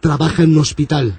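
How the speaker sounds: low, threatening priest voice; menacing priest. Acted.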